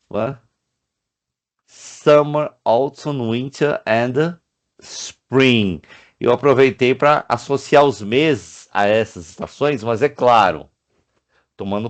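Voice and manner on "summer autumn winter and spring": higher, each season called clearly; teacher listing seasons; season names. Shown as a demonstration. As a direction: list the seasons for the class. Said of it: "As estações do ano".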